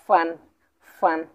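"ফান" as one separate syllable; pronunciation demo. Shown as a demonstration. Teacher models the Chinese syllable for learners, pronunciation demo. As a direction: say "ফান" alone, then pause. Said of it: "উচ্চারণ করতে যাই".

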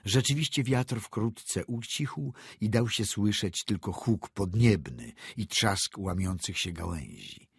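usual speaking voice

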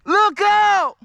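shouting a warning. Real, not acted. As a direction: call out sharply to warn someone. Calling warning out in the woods.

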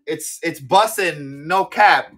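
slow, deliberate mock teen slang, not quite pulled off; a grown-up trying out teen slang, half-joking; mock Gen Z slang. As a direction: put on a kid's slang voice, slowly and self-consciously. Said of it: "God, I can't talk like this".

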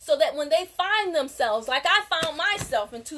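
heated rant building to pissed off; getting heated. Real, not acted. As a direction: let the passion boil up into anger. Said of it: "Yeah, I'm getting mad".

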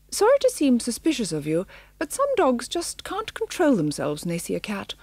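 a lightly voiced brisk tabby; lightly voiced cat. The cat apologising to the dogs, lightly voiced.

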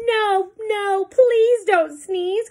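loud, high, slow plea; monkeys cry out. Acted. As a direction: cry out from the treetops. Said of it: "cried the monkeys in the trees".

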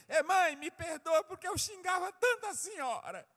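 high, loud, hammed-up begging; mock pleading. Preacher acts remorseful child to mother, mock pleading. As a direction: imitate a child crying out for forgiveness.

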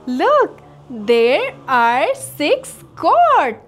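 usual speaking voice

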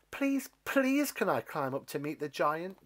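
put-on high eager begging boy; a hint of a boy pleading with the stalk. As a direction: beg for it. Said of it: "Jack begged".

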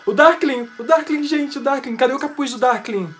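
loud, high repeated exclamations, easing slightly; thrilled fan outburst. Real, not acted. Fan spotting the Darkling on screen, thrilled. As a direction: cry out the name in delight. Favourite character appears in trailer.

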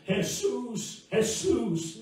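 high retold call to Jesus; imitated crying out. Preacher retells a brother praying in a field, high imitated cry. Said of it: "stood in that field crying".

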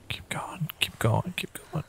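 tense whispered urging; whispering. Real, not acted. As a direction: urge yourself on in a whisper. Sneaking past a monster.

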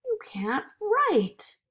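doubting voice. A narrator's reading. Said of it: "the voice came back".

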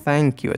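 "Thank" begun with an unvoiced th; TH pronunciation demo. Shown as a demonstration. Teacher models a reply for learners, "Thank" with clear th. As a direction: say "Thank" with tongue-between-teeth th. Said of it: "تلفظ thank در واقع یک تی اچ".

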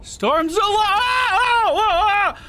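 high, drawn-out startled shout. Real, not acted. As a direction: yelp it out in shock, slowly. Startled in-game exclamation.

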